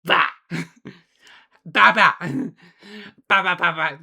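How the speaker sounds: put-on babbling baby sounds; cutesy baby talk. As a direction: babble like a toddler. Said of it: "reverting me into a Baba".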